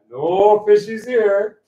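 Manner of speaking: loud, high, slow call; booming voice reprise. Acted. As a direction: replay the booming voice, a little smaller. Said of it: "there's this loud booming voice".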